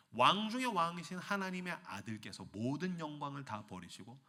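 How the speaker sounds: normal talking voice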